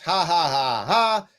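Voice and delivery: spelled-out mocking ha ha; mock laughter. Leadership laughing him off, mock ha ha. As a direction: fake a sneering laugh. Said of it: "And they laughed".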